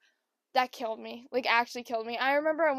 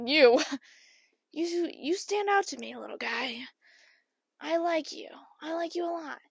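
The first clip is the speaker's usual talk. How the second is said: fond cooing; 4 semitones higher than usual. Retold or imitated. Picks out a favourite fish.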